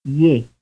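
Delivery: one syllable; glide plus vowel. Shown as a demonstration. Teacher quizzing students. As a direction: slide into the vowel. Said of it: "The answer is B".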